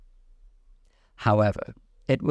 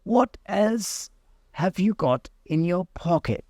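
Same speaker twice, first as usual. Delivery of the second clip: high pompous bird voice; a fussy high dodo; 10 semitones higher than usual. A narrator's reading. Dodo questioning Alice, high and pompous. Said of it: "he went on".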